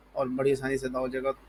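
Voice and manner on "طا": طا thick and round, vowel held long; heavy ta. Shown as a demonstration. Teacher models the letter for pupils, heavy long طا. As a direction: puff the mouth and sustain طا. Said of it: "منہ پھلانا ہے".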